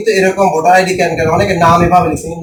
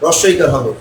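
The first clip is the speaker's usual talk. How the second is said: slow repeat. Shown as a demonstration. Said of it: "আবার বলে দিচ্ছি দুই নম্বর নিয়মটা কি".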